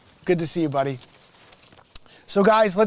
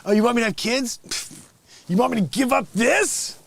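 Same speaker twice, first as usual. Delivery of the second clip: mock lazy Adam; 4 semitones higher, 3 dB louder than usual. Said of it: "And you're like".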